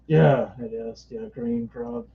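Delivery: a lightly voiced gruff alien, slow; a half-hearted try at Kilowog's voice. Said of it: "Try to do his voice, kind of".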